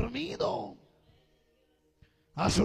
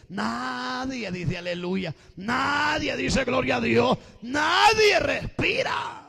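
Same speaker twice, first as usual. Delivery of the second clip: slow, from level to high and loud; building to a shout; 4 semitones higher, 5 dB louder, much slower than usual. Real, not acted. Preacher scolds a silent congregation, building to a shout. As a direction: stretch each "Nadie", louder each time.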